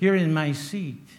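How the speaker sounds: ordinary talk, nothing marked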